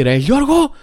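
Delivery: high-pitched waiter's yell to the kitchen; imitated calling out. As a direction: call out to a coworker, voice leaping up. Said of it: "αρχίζει να φωνάζει".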